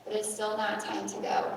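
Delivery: gently mirror the feeling, hold the boundary; calm talk to a small child; calm, confident. Acted. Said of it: "mirror the feelings back to it and say".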